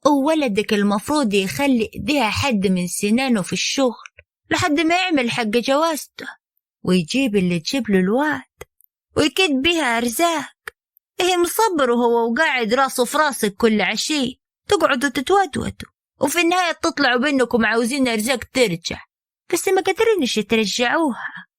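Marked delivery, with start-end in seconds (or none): 0.1-6.3 higher, scheming insinuation; slyly. Acted. Kahramana slyly suggests marrying him off again, higher. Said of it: "ردت عليها كهرمانة بخبث". 9.2-21.5 slyly. Acted. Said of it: "ردت عليها كهرمانة بخبث".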